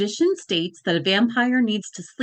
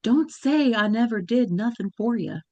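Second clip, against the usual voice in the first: put-on Southern accent. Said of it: "saying quietly in an exaggerated Southern accent".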